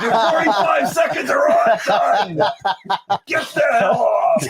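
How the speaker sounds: mock shouted heckle at the winner. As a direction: yell at him to leave the stage.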